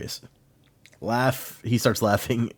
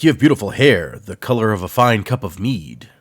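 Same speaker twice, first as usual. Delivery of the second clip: creepy captain; 7 dB louder than usual. Retold or imitated. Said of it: "the captain's all creepy".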